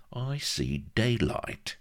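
high, slow voice of dawning cunning; scheming shyster. Acted. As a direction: draw it out slowly as the plan dawns. Shyster sees a way.

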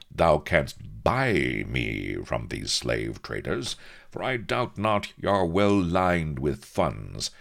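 lightly voiced grandiloquent buccaneer; eager captain. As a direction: propose it with old-fashioned flourish. Captain proposes his scheme.

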